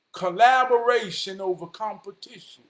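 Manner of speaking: loud, punchy slogan; rallying, forceful call; emphatic proclamation. Real, not acted. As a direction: proclaim it loudly like a motto. Motto repeated much louder.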